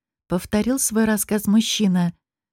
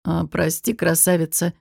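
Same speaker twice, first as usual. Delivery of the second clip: smirk; 3 semitones lower than usual. Acted. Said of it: "хмыкнул Баст".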